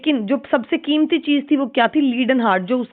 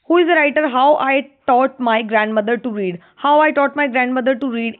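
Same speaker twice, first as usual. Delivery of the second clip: slow, deliberate read of the title; slow question reading; much slower than usual. Shown as a demonstration. Reads exam question aloud.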